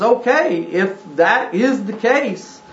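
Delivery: preacher voicing Paul's reasoning; voicing the apostle. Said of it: "I'm putting words in his mouth, as it were, but he says".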